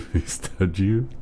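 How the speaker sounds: high, startled disbelief; shocked. Real, not acted. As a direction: gasp it out in surprise. Reading shocking chat about pet.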